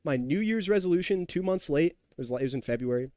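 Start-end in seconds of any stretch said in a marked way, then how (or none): 0.0-1.9 higher, hyped self-talk; mock-psyched gym resolve; pumped-up past self. Streamer mocking his own morning resolve, pitched up and hyped. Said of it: "I was like".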